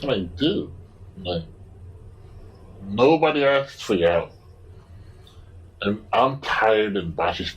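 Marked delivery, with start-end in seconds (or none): 0.4-4.3 pushy stranger at station gets an annoyed, higher snap. Retold or imitated. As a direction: tell him off, fed up and tired.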